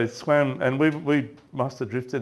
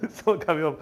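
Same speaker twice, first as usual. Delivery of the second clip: mock mad; 7 semitones higher than usual. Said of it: "he's, like, so mad".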